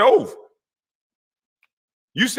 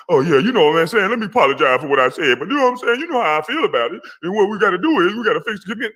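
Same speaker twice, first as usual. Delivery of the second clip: mock apology; 4 semitones higher, faster than usual. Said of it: "as soon as they come and talk to you".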